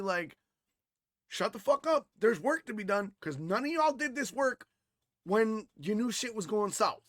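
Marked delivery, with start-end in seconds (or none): 1.3-7.0 retold outburst, higher pitched; exasperated telling-off. Son berating family over undone work, exasperated. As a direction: lay into them, fed up.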